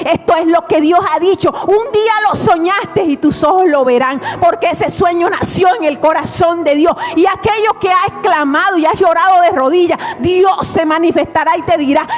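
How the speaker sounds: rising, shouting sermon climax; full-force preaching. Acted. Predicación a pleno volumen. (predicación a gritos)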